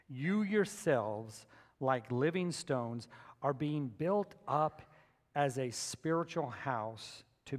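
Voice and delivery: slow, measured Bible reading; unhurried, weighted reading to a congregation; scripture reading. Real, not acted. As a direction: read the verse out deliberately, phrase by phrase. Reads scripture aloud.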